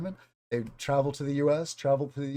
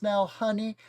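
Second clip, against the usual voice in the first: higher-pitched attempt at a Southern old lady; 7 semitones higher than usual. Teacher imitating an old Southern lady addressing a foreigner, high-pitched attempt. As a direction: try on a Southern granny voice, not quite there. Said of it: "I can't do the voice quite right".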